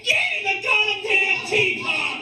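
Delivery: put-on high yelled order at the kids; furious parent shout. Dad at Disney yelling at his family, a hammed-up furious shout. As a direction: bark it at the family like a snapping dad. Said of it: "the next second you're like".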